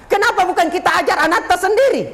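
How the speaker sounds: lightly voiced student asking; asking ustaz. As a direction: voice the student's pointed question. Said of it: "Dia bertanya".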